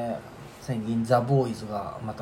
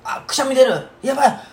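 high, louder panicked cry; 11 semitones higher, 6 dB louder than usual. Retold or imitated. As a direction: squeal it like a sneeze is coming. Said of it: "ってなった瞬間".

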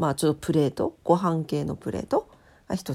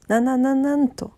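louder, higher stuttering build-up; excited stammer; 6 semitones higher, 5 dB louder than usual. Acted. Building up the big news. (興奮してどもる)

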